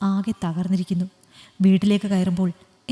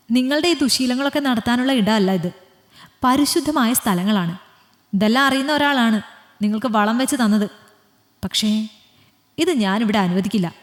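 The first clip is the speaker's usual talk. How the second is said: firm scolding, moderately raised; 2 semitones higher than usual. Acted. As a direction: lay down the law, voice lifted. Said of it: "അവൾ വീണ്ടും ശബ്ദം ഉയർത്തി പറഞ്ഞു".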